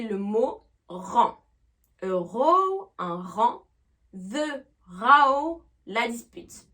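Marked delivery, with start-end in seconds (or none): 2.0-2.9 row rhyming with go, louder; long "o" vowel. Shown as a demonstration. Teacher repeating word and translation, long "oh" in row. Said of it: "avec le son O". 4.1-5.6 row rhyming with cow, loud; "ow" vowel. Shown as a demonstration. Teacher repeating the word for dispute, loud "ow" in row. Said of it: "Avec le son A O".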